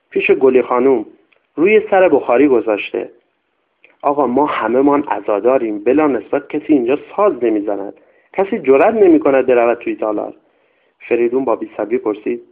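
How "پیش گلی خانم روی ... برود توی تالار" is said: lightly voiced old servant, anxious, insisting; a hint of a superstitious old nanny pleading her case; old servant woman. Old servant answers the master. (خدمتکار پیر، کمی نگران و مصر)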